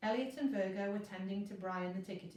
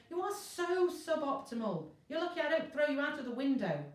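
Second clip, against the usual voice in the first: scolding; 6 semitones higher, 5 dB louder than usual. Acted. Virgo scolding useless parchment.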